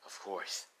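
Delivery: low, hushed dutiful reply; obedient son. Acted. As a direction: answer the father softly and low. Dragon's son answers his father.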